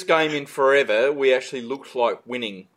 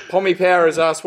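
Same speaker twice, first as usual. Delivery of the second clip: ordinary talk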